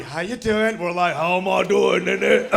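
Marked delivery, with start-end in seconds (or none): 0.0-0.8 lightly imitated genteel British accent; Downton Abbey British. British visitor greeting Americans, imitated Downton Abbey accent. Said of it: "They come in Downton Abbey". 1.2-2.5 hammed-up rough British accent; Peaky Blinders on meth. American replying to a British visitor, manic mock British accent. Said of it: "we reply with Peaky Blinders on meth".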